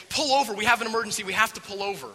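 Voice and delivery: loud, high-pitched plea to stop the car; urgent demand. Acted. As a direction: raise the alarm from the back seat. Kids demand emergency stop.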